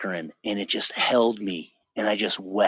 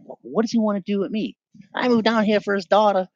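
high-pitched, louder self-pitying complaint; exasperated venting in a raised voice; indignant retold rant; 10 semitones higher, 4 dB louder than usual. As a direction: act out your younger self griping, pitched way up. Acted indignant rant about girlfriend's father.

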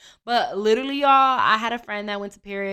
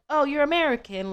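put-on a half-hearted London accent, higher; a quick, light stab at a London accent; attempted London accent; 6 semitones higher than usual. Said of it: "let me not try to do that accent".

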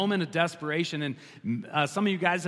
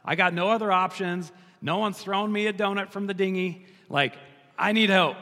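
Peter pleading louder, a touch higher; desperate plea; 4 semitones higher, 5 dB louder than usual. Acted. Sinking Peter begs Jesus for help, louder desperate plea. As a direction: cry out for help as you sink. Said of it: "he reaches a hand and says".

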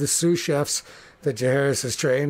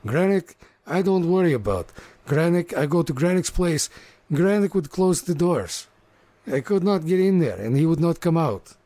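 lightly voiced orc rant. Orc chef rants about Grenick.

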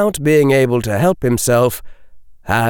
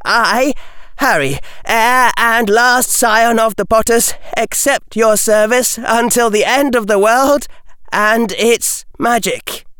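put-on earnest, steady young voice; solemn boy's vow; 11 semitones higher than usual. A narrator's reading. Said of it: "Harry took a breath and said".

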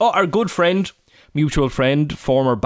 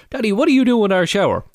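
imitating toddler; 10 semitones higher than usual. Voicing his two-year-old son.

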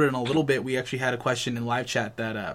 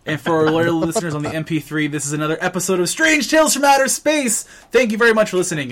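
loud, higher announcer sign-off; show announcer; 4 semitones higher, 6 dB louder than usual. Acted. Host closing the episode for loyal listeners, announcer style. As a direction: build to a big, raised-pitch show title.

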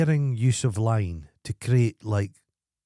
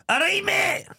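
high calling stranger; slower than usual. Retold or imitated. Squeaky Shoes hailing him across the street, high squeaky call.

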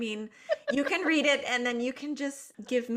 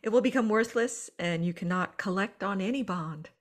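lightly Southern, half laughing; Southern accent. Acted. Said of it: "Make it Southern".

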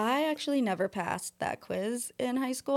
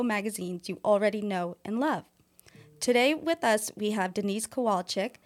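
smooth podcast intro read; book reading voice. Shown as a demonstration. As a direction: read it like an audiobook narrator. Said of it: "that was my, uh, book reading voice".

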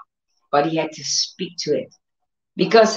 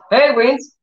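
commanding the storm; 5 semitones higher, slower than usual. Retold or imitated. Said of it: "speaking to the winds".

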